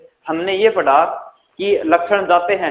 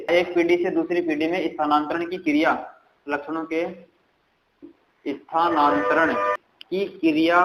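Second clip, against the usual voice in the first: slow dictation; 4 dB quieter than usual. Shown as a demonstration. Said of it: "लिख लेना साथ साथ में".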